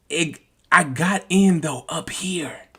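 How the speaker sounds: hushed confession, barely voiced; whisper. Real, not acted. Trader admits to viewers he entered late, whispered. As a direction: let it slip out in a whisper.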